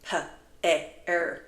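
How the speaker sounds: "P, E, R" spelled one letter at a time; letters of pear sounded out one by one; sounding out letters. Shown as a demonstration. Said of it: "sounding out each sound".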